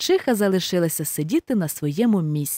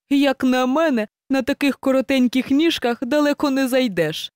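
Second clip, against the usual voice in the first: lightly voiced boastful hare, higher; cocky hare; 5 semitones higher than usual. Hare taunting the hedgehog's little legs, smug. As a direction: tease him about his short legs.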